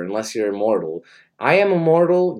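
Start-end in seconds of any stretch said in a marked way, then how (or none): 1.4-2.4 grand boast. Acted. Comic boast.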